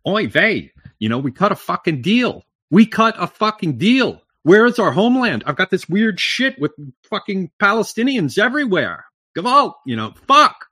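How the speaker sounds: high, loud mock Yiddish-Jewish accent, building to a yell. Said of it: "It's strange to hear an Alabama Jew there".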